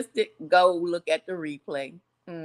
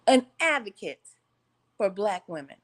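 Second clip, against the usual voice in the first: louder, projected to the back row; announced louder repeat. Shown as a demonstration. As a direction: say it again so the back can hear. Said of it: "Just for the people in the back can't hear".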